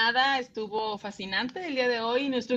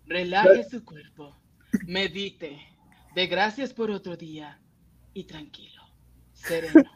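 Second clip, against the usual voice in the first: spa receptionist. Pretend. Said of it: "Me encantó la voz de la secretaria".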